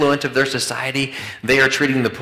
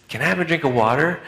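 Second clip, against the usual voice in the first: put-on a kid's plea, pitched up; child asking; 4 semitones higher, faster than usual. Little boy calling to mom from bedroom, pleading. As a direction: ask like a little boy from bed.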